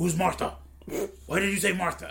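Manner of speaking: mock dramatic movie-style delivery, belted high and loud.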